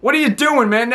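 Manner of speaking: mock crying plea. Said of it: "ran away crying".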